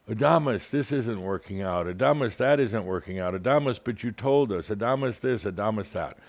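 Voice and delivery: imitating callers repeating his name; pestering caller. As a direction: whine it like a needy caller. Callers pestering Adamus all week.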